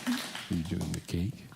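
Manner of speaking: soft whispered aside, kept from the audience. Real, not acted. Host to his daughter about the cake, whispering. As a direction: hush it so the birthday surprise isn't spoiled.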